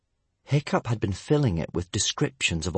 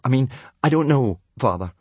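flustered, higher backtracking; stammering; 3 semitones higher, 5 dB louder, faster than usual. Acted. Son cornered by his father, stammering. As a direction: blurt it out, unsure. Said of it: "stammered Hiccup".

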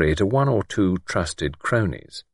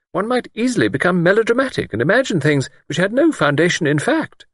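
high-pitched lady, mildly grave; earnest doubt in a high character voice; 10 semitones higher than usual. A narrator's reading. Miss Wainfleet admitting she cannot be sure, grave. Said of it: "Miss Wainfleet said gravely".

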